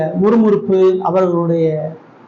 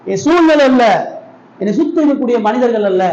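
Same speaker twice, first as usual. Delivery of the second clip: emphatic cry; 3 semitones higher than usual. Real, not acted. Preaching climax.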